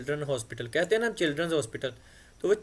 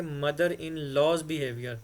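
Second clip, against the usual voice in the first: slow dictation; much slower than usual. Shown as a demonstration. Teacher dictates example slowly.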